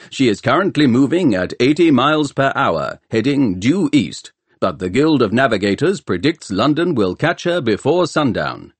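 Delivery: a hint of a booming broadcast voice; booming announcer. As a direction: lightly proclaim it like a public announcer. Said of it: "boomed the voice of the announcer".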